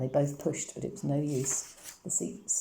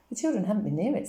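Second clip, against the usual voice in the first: sharp, cross retort, louder and higher; 5 semitones higher, 5 dB louder, faster than usual. A narrator's reading. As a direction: snap back at the accusation, irritated. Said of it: "said Mamma crossly".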